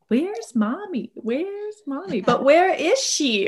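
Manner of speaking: put-on high, slow little-kid voice calling mommy; imitating a small child searching the house; toddler calling for mom. Mom imitating her toddler hunting for her, high and slow. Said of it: "my toddler out there like".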